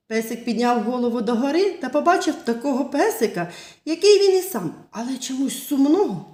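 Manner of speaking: put-on lively storytelling voice for little kids; fairy tale narration. Teacher telling children a fairy tale, lively storytelling. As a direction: tell it like a bedtime tale.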